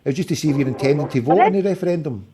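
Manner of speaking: talking without dentures; gummy speech, teeth out. Real, not acted. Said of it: "I'll go and put my teeth in".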